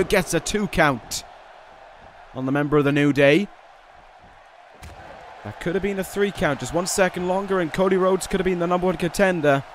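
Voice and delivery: brisk ringside play-by-play; wrestling commentator. Acted. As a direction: call the match like TV commentary.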